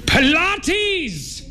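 high-pitched outburst, falling away; very high, indignant exclamation; exclaimed cry. A narrator's reading. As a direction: cry it out in exasperation. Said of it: "he cried".

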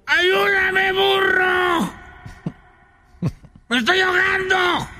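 frantic high ant yelling from the swamp; desperate cry for help. Acted. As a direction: squeal like a tiny ant drowning. Ant drowning, begging donkey.

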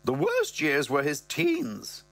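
a hint of the mum, slowly; mother's voice. Mother reminiscing to Brett, slow lightly voiced. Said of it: "she goes".

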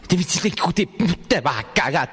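a hint of a stern mother, drawn out; mock threatening mother, slow; mom's threat. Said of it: "te decía". (madre amenazante, lento)

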